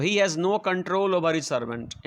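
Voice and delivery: very slow, each word spaced out for the class; slow dictation. Shown as a demonstration. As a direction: read it out word by word as if dictating to pupils. Teacher dictating full sentence. (बहुत धीरे, शब्द-शब्द बोलकर लिखवाना)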